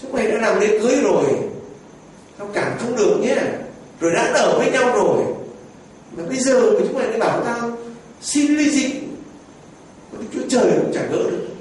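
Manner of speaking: scolding priest. Retold or imitated. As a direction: lecture them like an exasperated pastor. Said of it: "Ông cha bảo".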